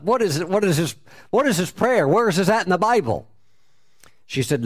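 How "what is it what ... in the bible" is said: higher, insistent string of questions; eager disbelief. Retold or imitated. Tenant asking landlady about the prayer, eager disbelief. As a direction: press for the answer in amazement.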